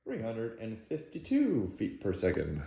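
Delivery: flat, even robotic readout; half robot voice. Real, not acted. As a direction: read the numbers like a machine. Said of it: "Why do I sound like a robot?".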